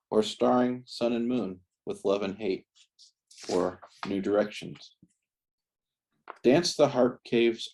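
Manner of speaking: measured, deliberate poetry-reading cadence; poem reading. Acted. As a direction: read it as verse, pausing after each line. Reads own poem aloud.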